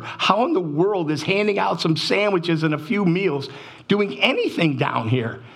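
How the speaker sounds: retelling an anguished plea to God, pitch climbing; heartbroken plea. Retold or imitated. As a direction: plead in rising bewilderment, a touch of despair. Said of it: "I am just broken".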